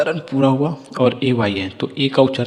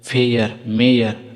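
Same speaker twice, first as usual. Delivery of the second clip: slow drill reading; much slower than usual. Shown as a demonstration. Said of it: "जैसे पढ़िए".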